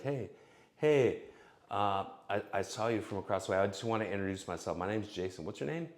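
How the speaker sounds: fast, light intro to a stranger; quick pickup demo. Shown as a demonstration. Demo for men approaching a woman, quick and light. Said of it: "be quick about it".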